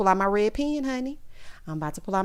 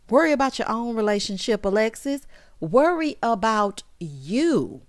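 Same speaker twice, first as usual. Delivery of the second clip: emphatic scolding. Real, not acted. Scolding Alexis, repeated for emphasis.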